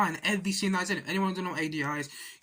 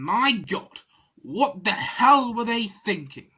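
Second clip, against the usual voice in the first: exasperated; 5 dB louder, much slower than usual. Real, not acted. Exasperated rant about casting.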